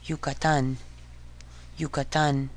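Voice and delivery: "Yucatan" as Spanish "yoo-kah-TAHN"; Spanish pronunciation. Shown as a demonstration. Teacher modelling Y for learners, "Yucatan" in careful Spanish. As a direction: say "Yucatan" with pure Spanish vowels. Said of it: "it's pronounced".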